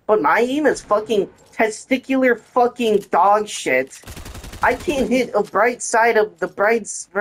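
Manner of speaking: high-pitched ranting; frustrated rant. Real, not acted. Gamer venting at teammates, high frustrated rant. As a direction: vent the rage, pitch up.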